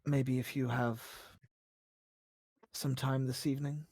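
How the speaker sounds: soft, low tentative invitation; tentative game character. Acted. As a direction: ask gently, with hesitant pauses.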